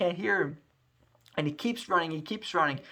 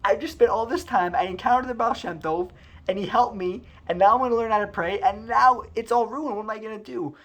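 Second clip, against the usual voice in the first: pitched up, rising panic at the loss; dismayed disbelief; 6 semitones higher than usual. Acted. Yaakov realizing his papers scattered, in dismay. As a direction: sound like everything just fell apart. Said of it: "Rav Yaakov can't believe it".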